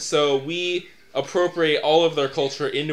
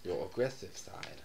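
put-on Asian accent; 8 semitones lower, 14 dB quieter than usual. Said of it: "We should not do accents".

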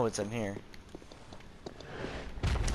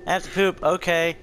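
mock dog voice; 7 semitones higher, 6 dB louder than usual. Voicing dog that pooped.

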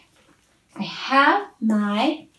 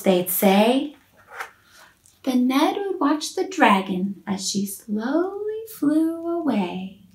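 put-on lively read-aloud for small children; gently animated picture-book narration; storybook reading. A narrator's reading. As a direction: tell it like a bedtime rhyme book.

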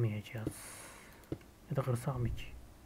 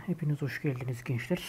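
drawn-out, slightly raised intro voice; video intro; 3 semitones higher, 4 dB louder than usual. Real, not acted. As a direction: welcome viewers to the episode, stretching phrase endings. Opens the episode for viewers.

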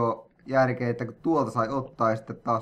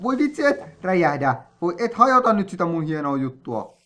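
alarmed plea; 5 semitones higher, 4 dB louder than usual. Real, not acted. Creeper about to explode.

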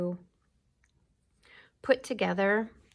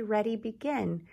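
cue call; 2 semitones higher than usual. Shown as a demonstration. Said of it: "I'll say".

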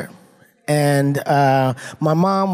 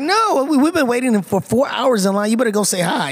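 higher, insistent mock scolding; upset parent; 5 semitones higher than usual. Parent to kid after four hours in line, mock upset. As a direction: push the kid forward like a fed-up parent. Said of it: "your parents would get upset".

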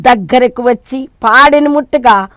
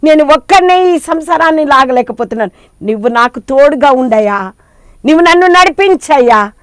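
fervent pleading prayer; 4 dB louder than usual. Acted. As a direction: plead like a struggling mother at his feet. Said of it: "అని ఎప్పుడైతే ఆయన పాదాలు పట్టుకుంటావో". (దేవునికి బిగ్గరగా వేడుకోలు)

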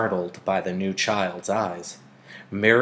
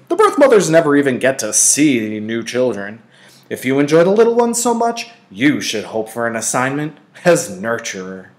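fond father; 4 semitones higher, 9 dB louder than usual. A narrator's reading. Father voiced gently.

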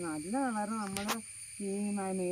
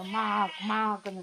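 lightly mimicked frog call, a bit louder; imitated frog croak; 3 semitones higher, 6 dB louder, slower than usual. Showing how frogs cry before heavy rain, light croak imitation. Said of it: "കരയുമ്പത്തേനും".

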